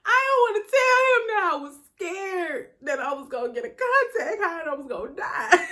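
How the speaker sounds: laughing through it. Real, not acted. Laughing at own embarrassing fear.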